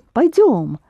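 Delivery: "пойдём" with the weight on final "дём"; accent the ending of "пойдём"; stress on the ending. Shown as a demonstration. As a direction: lean on the last syllable of "пойдём". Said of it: "Accent the ending again".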